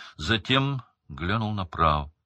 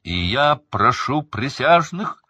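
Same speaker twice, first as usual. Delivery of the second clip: loud, higher proclamation; full-lung shout; 7 semitones higher, 7 dB louder than usual. A narrator's reading. Crouch shouting to the jury at full force. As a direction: shout it at the whole hall. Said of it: "во всю силу лёгких".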